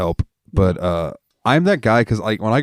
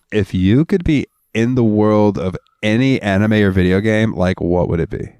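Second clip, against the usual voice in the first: put-on girly reading. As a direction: read it like a bubbly young fan typing a question. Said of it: "I'm gonna read this verbatim in the way that I think".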